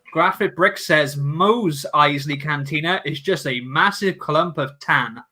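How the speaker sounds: slow, deliberate read-out with accidental sarcasm; unintentionally sarcastic. Real, not acted. Streamer reading a hot take from chat, unintentionally sarcastic. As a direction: read it out slowly, sounding faintly sarcastic. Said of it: "I just sound like I'm being sarcastic".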